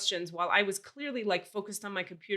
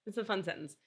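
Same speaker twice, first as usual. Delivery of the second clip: repeated much softer, under the breath; 7 dB quieter, faster than usual. Shown as a demonstration. Repeating her own line to herself, quietly. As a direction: murmur it back to yourself.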